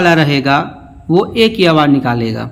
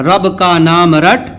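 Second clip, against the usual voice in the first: "رب کا نام رٹ" run together as one phrase; "رب کا نام رٹ" in one connected flow; fluent reading. Shown as a demonstration. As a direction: read "رب کا نام رٹ" straight through without breaks. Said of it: "اب اس کو روانے پڑھتے ہیں".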